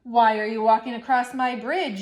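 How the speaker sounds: loud troll yell. Acted. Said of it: "yelled the hideous".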